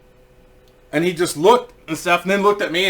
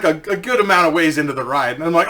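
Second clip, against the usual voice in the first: usual speaking voice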